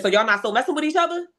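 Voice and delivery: high pointed accusation; accusing. Retold or imitated. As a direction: call out the lie. Catching him out.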